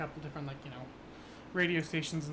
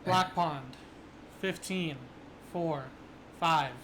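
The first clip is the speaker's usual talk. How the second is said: robotic monotone radio voice; numbers station monotone; slower than usual. Acted. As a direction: read the numbers flat like a machine. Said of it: "this very robotic, you know, monotone voice".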